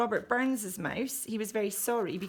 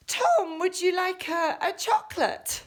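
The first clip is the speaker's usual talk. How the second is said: loud and high, calling across the room; 10 semitones higher, 6 dB louder than usual. Acted. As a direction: call Tom over with an offer. Calling Tom, offering chocolate.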